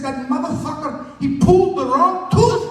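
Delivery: acted-out fury at a botched dentist job; hammed-up indignant complaint; pained outrage.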